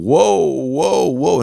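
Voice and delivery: high, loud, drawn-out protest to calm her; mock defusing. Friend defusing his date's outburst, high mock alarm. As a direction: imitate a guy trying to halt a blowup. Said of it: "he starts to diffuse the situation".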